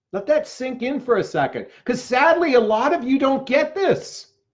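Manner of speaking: agitated, heated emphasis. Speaker addressing the audience, breaks off to admit it: yelling, agitated. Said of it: "I'm yelling, I'm agitated".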